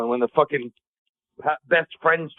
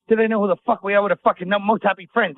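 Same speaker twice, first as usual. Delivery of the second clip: mock outrage; 6 semitones higher than usual. Comic griping about the tour, with hammed-up indignation. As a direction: puff up like an insulted headliner.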